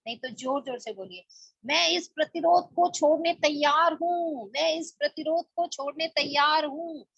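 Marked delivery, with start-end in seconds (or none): 1.6-7.0 shouted affirmation. Shown as a demonstration. Teacher shows the shouted affirmation after a plain one. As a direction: raise the voice to declare it. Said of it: "चिल्ला चिल्ला के बोलिए".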